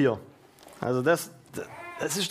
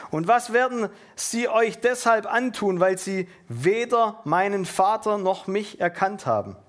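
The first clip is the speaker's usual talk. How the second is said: raised, declaimed Bible reading; scripture reading; 3 semitones higher than usual. Acted. Preacher reading Jesus' warning to his disciples, declaimed. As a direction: read the verse out to the congregation.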